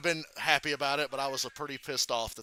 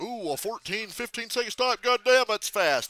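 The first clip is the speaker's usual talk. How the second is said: mock amazement; 7 semitones higher, 4 dB louder than usual. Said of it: "it was like".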